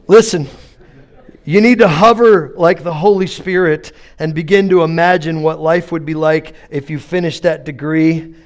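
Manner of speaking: earnest rousing sermon voice; steady, urgent pulpit cadence; preaching. Acted. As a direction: exhort the congregation to dream. Preaching exhortation.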